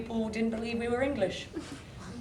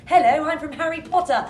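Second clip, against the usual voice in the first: higher-pitched, exaggerated stereotypical English accent; 7 semitones higher, 7 dB louder than usual. Shown as a demonstration. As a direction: ham up a fake English accent. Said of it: "putting on an English accent".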